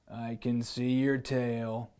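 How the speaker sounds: lion voice. Acted. Lion spotting hiding boy.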